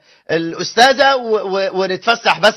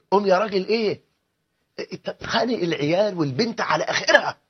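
softer repeat; 6 dB quieter than usual. Retold or imitated. Wife repeating her order to the husband, softer. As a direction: drop the repeat to a softer nag. زلزال سبعتاشر ريختر.

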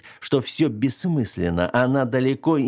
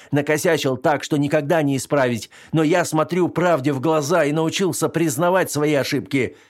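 raised, heated rebuke; angry retort; 5 semitones higher than usual. Acted. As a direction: tell her off, heated. Max finally snaps back.

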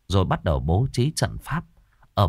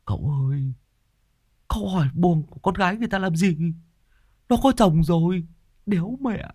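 much higher, fast cheeky sidekick voice; teasing whisper-gossip; 10 semitones higher than usual. Acted. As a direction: gossip into the master's ear, mocking him. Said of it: "nó ghé tai cậu". (giọng thằng hầu cao, nhanh, trêu chọc)

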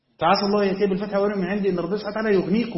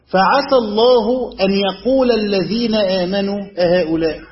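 slow, louder, deliberately strange recitation of فعسى الله أن يقول; odd-sounding reading; 3 semitones higher, 6 dB louder, slower than usual. Shown as a demonstration. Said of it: "غريبة، صح؟".

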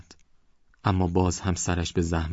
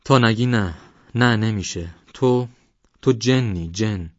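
put-on louder and higher, a scared old man crying out; frightened shout; 4 semitones higher, 7 dB louder, slower than usual. Old man crying out in fear that the stranger is a jinn. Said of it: "او فریاد کشید".

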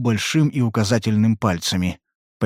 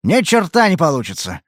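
rough; 6 semitones higher than usual. Acted. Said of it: "сказал он грубо".

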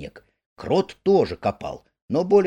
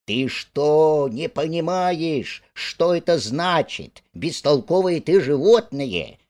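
higher, exasperated outburst; impatient exclamation; 5 semitones higher, 3 dB louder, slower than usual. Acted. Rat impatiently scolding slow-witted Mole. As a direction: scold him, out of patience. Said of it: "нетерпеливо воскликнул Крыс".

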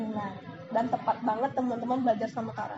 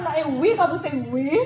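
excited; 6 dB louder than usual. Shown as a demonstration. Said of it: "Jadi berharap".

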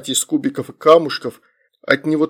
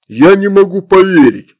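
high, loud incredulity; disbelieving; 5 semitones higher, 7 dB louder than usual. A narrator's reading. Demon takes off, loudly incredulous. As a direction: exclaim it in outraged disbelief. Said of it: "сказал он".

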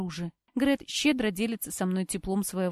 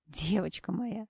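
tender comfort; 6 dB quieter, slower than usual. A narrator's reading. Brother comforting crying sister.

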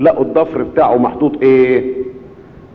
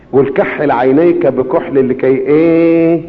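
slow, lowered prayerful plea; slow closing prayer; slower than usual. Acted. Preacher praying to Jesus for forgiveness with the congregation, slow and humble.

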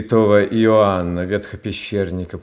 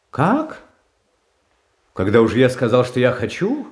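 sharp high cry of disbelief, much higher; shocked outcry; 4 semitones higher, 3 dB louder than usual. Acted. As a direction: blurt it out, stunned he is refused. Tsar shocked his order refused.

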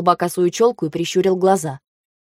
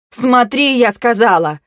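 loud barked command; barked order; 5 semitones higher, 6 dB louder, slower than usual. A narrator's reading. Vayu barks at Kantor to look, loud. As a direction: bark the order at him. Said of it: "рявкнула я".

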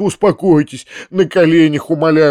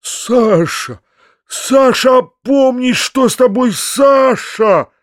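high, alarmed shout; frantic shouting; 11 semitones higher, 4 dB louder, slower than usual. A narrator's reading. Uncle trying to bring Саша to her senses, frantic high shouting. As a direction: shout to stop her, pitch way up. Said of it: "кричал дядя".

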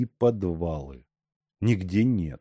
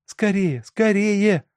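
high, urgent call; hurrying them; 12 semitones higher, 5 dB louder, slower than usual. A narrator's reading. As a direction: urge them on, rising louder. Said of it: "торопила Алёнка". (торопя, высоко и нетерпеливо)

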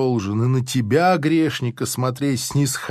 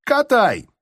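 mock officer shout; 6 semitones higher than usual. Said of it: "кричит он солдатам".

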